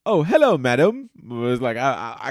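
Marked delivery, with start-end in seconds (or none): 0.0-1.1 high, loud theatrical prince voice; hammy stage actor. Pretend. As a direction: overact it like a parade prince. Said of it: "I gotta work on my voice".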